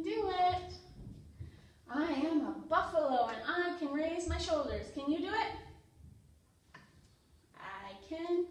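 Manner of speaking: lively picture-book read-aloud for toddlers; reading to children. Acted. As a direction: read it out to little kids with energy.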